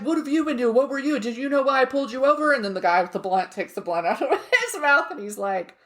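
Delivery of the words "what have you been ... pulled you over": higher, quicker mock police questioning; mock cop. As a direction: grill him like a TV cop. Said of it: "And they're like".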